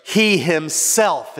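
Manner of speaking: "He himself" slow, leaning hard on himself; stress on HIMSELF. Shown as a demonstration. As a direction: stretch and punch "himself". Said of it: "is the emphasis".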